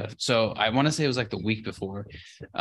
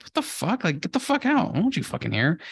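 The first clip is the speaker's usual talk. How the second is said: higher, half-yelled get out; kicking the girls out, mock angry and pitched up; 8 semitones higher than usual. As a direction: imitate himself snapping at the girls. Telling the girls to leave.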